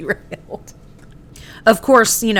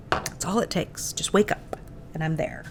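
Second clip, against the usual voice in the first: muttered aside; 10 dB quieter than usual. Real, not acted. Aside about kids waking demonic.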